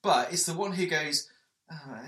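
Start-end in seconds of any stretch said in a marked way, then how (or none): 1.7-2.0 high, long drawn-out wail; hammed-up bad accent attempt like a goat; goat-like bleat. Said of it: "You sound like a goat".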